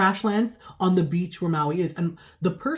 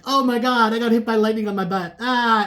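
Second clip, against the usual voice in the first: mock wail; 4 semitones higher, 3 dB louder than usual. Mock victim struck by lightning.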